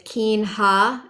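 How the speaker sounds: keen ha with the closing A fully voiced; final A pronounced. Shown as a demonstration. Teacher showing which line endings keep their A, final A held in keen ha. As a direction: sound out the long A ending keen ha. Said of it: "make sure we pronounce those A's".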